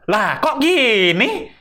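baffled. Retold or imitated. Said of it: "Pemikirannya ... itu kayak".

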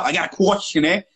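co-host's words in mock Italian; mock Italian accent. Teasing the co-host's question, mock Italian accent. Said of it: "What are you, Italian now?".

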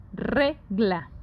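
"Regla" in two separated syllables, RE strong, falling on GLA; stress on RE. Shown as a demonstration. Teacher demonstrates an unwritten accent, stressing RE in "Regla". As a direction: lean on the first syllable of "Regla". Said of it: "Re es la sílaba tónica".

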